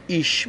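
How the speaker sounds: ایش ending in a sh sound. Shown as a demonstration. Teacher gives learners an example word, ch as sh. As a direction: say German "ich" as ایش, "ish".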